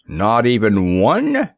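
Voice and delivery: slow, peevish disbelieving question. Acted. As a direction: whine it out, put out. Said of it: "exclaimed Samuel peevishly".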